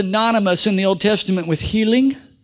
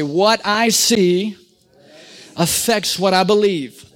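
call and response; slower than usual. Shown as a demonstration. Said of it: "Say this with me".

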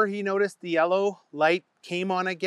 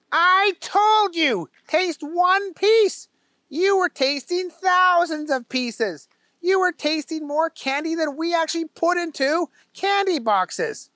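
exasperated boss; 12 semitones higher, 4 dB louder than usual. A narrator's reading. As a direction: spell it out word by word. Owner lectures slowly.

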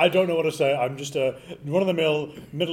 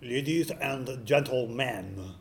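slow showman voice; 3 semitones lower, 5 dB quieter, much slower than usual. Acted. Magician opening act.

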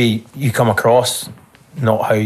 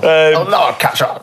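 laughing; 6 semitones higher, slower than usual. Real, not acted. Banter after teasing about masks.

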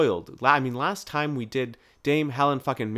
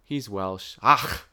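put-on Welsh accent; 5 semitones lower, much slower than usual. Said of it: "I was trying to do a Welsh".

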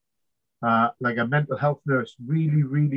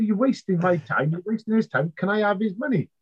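raised-pitch, mildly indignant complaint; retold indignation; 6 semitones higher than usual. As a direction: argue it higher, without shouting. Retold row with captain and specialist.

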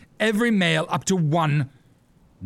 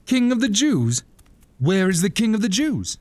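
mocking quote; 3 semitones higher than usual. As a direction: parrot their words in contempt. Herod mocking the Magi.

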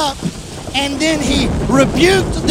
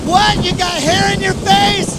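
mock incredulous; 6 semitones higher than usual. Disciples mocked in Jesus' reply.

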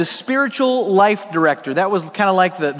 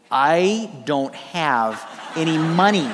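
slow and lower, chuckling through it; laughing; 3 semitones lower, much slower than usual. Retold or imitated. Preacher to congregation, repeating his student excuse, laughing slowly. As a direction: laugh at yourself while saying it.

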